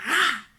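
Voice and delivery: short mimicked smack sound; imitated slap noise. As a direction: voice the slap as one abrupt burst. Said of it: "He just went".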